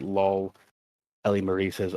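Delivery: flat deadpan reading; no ups or downs; monotone voice. Shown as a demonstration. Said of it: "reading it in a very monotone voice".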